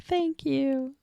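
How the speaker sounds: gentle, lightly acted gratitude; touched thanks. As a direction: say it small and sweet, imitating her. Retold thanks for kind wishes.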